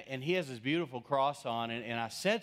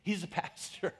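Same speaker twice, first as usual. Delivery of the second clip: much higher, hurried insistence; frantic rescue; 9 semitones higher than usual. Retold or imitated. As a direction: pipe up quickly to save the moment. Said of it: "she said".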